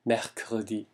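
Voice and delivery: mercredi with both Rs from the throat; French R demo. Shown as a demonstration. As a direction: say mercredi, first R near a "g", second a windy "h". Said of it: "흐에 가까운 소리가 납니다".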